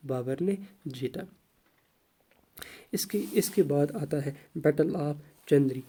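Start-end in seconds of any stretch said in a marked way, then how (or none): 2.9-5.8 whisper. Real, not acted. Whispers the next battle name.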